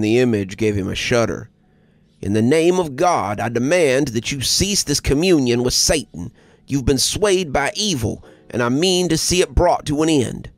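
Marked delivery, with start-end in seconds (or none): 2.2-10.5 raised, commanding priest voice; a preacher condemning evil; stern priest. Acted. Priest confronting the cult.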